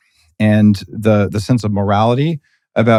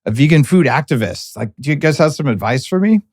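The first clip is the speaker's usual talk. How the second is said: higher-pitched audience questioner, lightly voiced; eager audience member; 5 semitones higher than usual. Audience member asking the panel for advice, lightly imitated higher voice. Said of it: "someone in the back of the room stood up and says".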